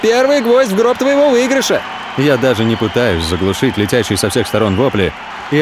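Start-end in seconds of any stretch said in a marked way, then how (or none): 0.0-1.8 shouting. Acted. Shouting over the crowd.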